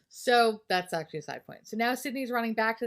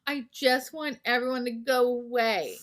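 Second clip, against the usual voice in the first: higher, louder acted wail; hammed-up cry of exasperation; mock exasperated holler; 5 semitones higher, 4 dB louder than usual. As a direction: imitate a fed-up movie heroine. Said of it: "screaming and hollering, and she's like".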